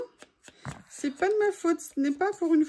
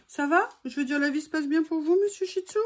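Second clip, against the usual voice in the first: pet talk; 4 semitones higher than usual. Real, not acted. Talking sweetly to her dog.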